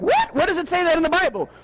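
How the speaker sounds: mock disbelief with a laugh; a laughing, fast, incredulous retort; incredulous what. Listener scoffing at the claim, mock disbelief. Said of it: "And you're like".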